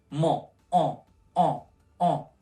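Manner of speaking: En said through the nose, French nasal; En, hold the nasal vowel with no n. Shown as a demonstration. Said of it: "Porte d'embarquement".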